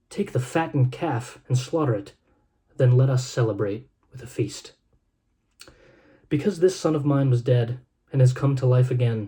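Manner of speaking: measured, reverent reading of a Bible passage; gentle storyteller's scripture read. Acted. Reads Luke chapter fifteen aloud.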